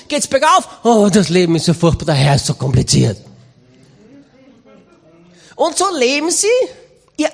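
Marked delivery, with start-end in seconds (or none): 0.8-3.2 mock moaning Christian. Mocking Christians when life is hard.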